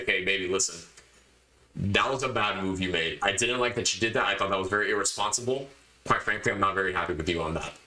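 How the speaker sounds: low, even reproach; firm but composed, voice kept low; calm, controlled. Acted. Boyfriend telling his girlfriend off without screaming, calm and controlled. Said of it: "I'm not going to scream at her".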